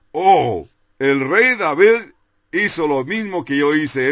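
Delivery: joyful exclamation. Retold or imitated. Preacher retelling his relief on reading about King David, exclaiming. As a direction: exclaim it, thrilled to find a kindred case. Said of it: "y yo exclamé".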